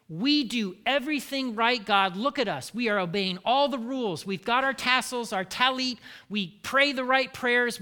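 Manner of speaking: a hint of a proud Pharisee listing his good deeds to God; smug Pharisee. Pharisee boasting to God, mildly smug. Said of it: "same attitude that the Pharisees had".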